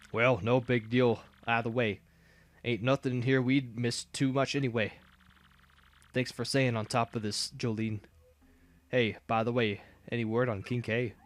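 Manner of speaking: lightly voiced Southern redneck, slow; a hint of a folksy Southern boss; easygoing Southern redneck twang; redneck drawl. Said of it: "I know how to talk like a redneck now".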